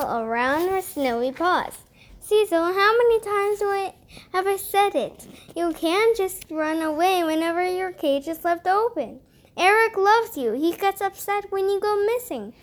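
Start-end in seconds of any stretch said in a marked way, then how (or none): 2.2-12.5 higher, quick chiding cat voice; scolding cat. Acted. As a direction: scold him like a fussy cat.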